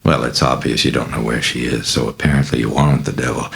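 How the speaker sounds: ordinary delivery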